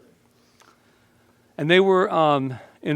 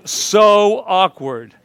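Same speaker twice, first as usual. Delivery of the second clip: awkward; 4 semitones higher, 10 dB louder, much slower than usual. Retold or imitated. Embarrassing movie scene with kids.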